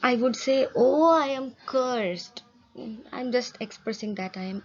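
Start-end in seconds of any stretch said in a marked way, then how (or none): 0.8-2.4 slow, exasperated "Oh, I am cursed" as a fed-up groan; irritated sigh. Shown as a demonstration. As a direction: sound fed up with your bad luck. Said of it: "suppose I am irritated, I would say".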